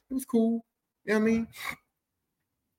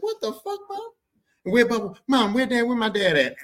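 put-on kid exasperated; 6 semitones higher, 4 dB louder than usual. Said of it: "I used to be like".

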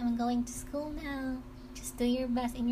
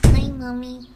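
loud cheerful call from the door; calling out loudly; 17 dB louder than usual. Acted. Child calling to mother as she comes home, loud and cheerful. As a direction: shout a happy hello to mom.

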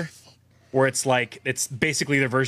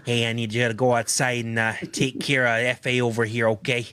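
lightly voiced mob boss, a bit lower; mock mobster; 4 semitones lower than usual. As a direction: give orders like a pretend mobster. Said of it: "What a cool mobster name".

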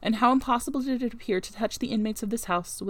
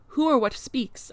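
high, slow, startled question; terrified; 5 semitones higher, 3 dB louder, slower than usual. A narrator's reading. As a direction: ask it in fear of an unexpected voice. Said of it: "terrified at the unexpected sound".

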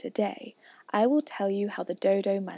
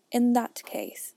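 slow, grave and solemn; 2 semitones higher, slower than usual. Acted. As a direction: announce it gravely. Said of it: "said the dodo solemnly".

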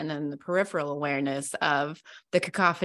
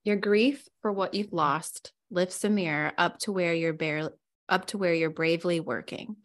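measured, careful reading of a Rumi poem aloud; gentle poetry recital. Acted. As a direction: read the poem to the group, unhurried. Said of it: "Can you read it one more time".

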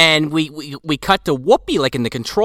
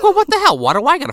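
high, louder indignant what the hell; a put-upon outburst; mock exasperated; 12 semitones higher, 3 dB louder, much faster than usual. Victor Garber sent after Santa, mock exasperated. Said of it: "And he's like".

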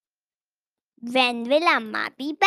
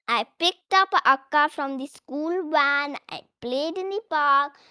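smiling. Acted. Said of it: "with a wide smile".

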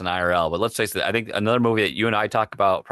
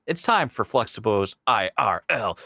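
slow announcer robot voice. Acted. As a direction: intone it like a robot. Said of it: "you were like a robot there".

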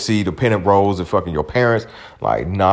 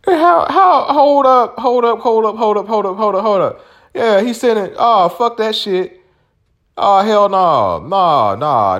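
much higher and louder, stunned disbelief; shocked outburst; 13 semitones higher, 3 dB louder than usual. Real, not acted. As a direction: react like you just saw something outrageous. Reacting in shock to a photo.

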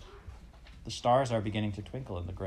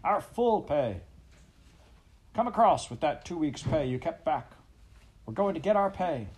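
angry shout; 9 semitones higher, 4 dB louder than usual. A narrator's reading. Worker shouting at Pa over held-back wages, high angry shout. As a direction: yell the grievance at the boss. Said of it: "other voice shouted".

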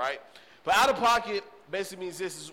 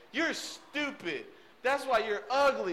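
put-on bratty toddler; 6 semitones higher, slower than usual. Toddler insulting mom.

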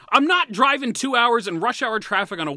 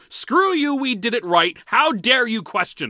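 mocking dismissive team; 2 semitones higher, 5 dB louder than usual. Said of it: "Their response to me boiled down to".

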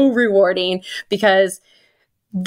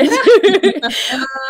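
bright burst of laughter; 10 semitones higher, 4 dB louder than usual. Real, not acted. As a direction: laugh out loud, genuinely amused. Laughing mid-story about patient.

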